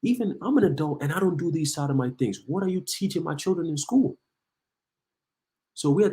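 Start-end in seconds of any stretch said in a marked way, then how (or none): 0.0-4.2 higher-pitched voice of an indignant parent, a hint of mockery; outraged parent. Parent confronting the school board, lightly voiced outrage. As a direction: lightly play a shocked mother demanding answers. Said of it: "The parents are like".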